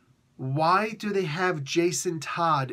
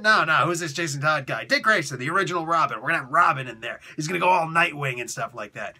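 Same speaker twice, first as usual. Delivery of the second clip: boss overruling; 3 dB louder, faster than usual. Retold or imitated. Boss overruling with his plan.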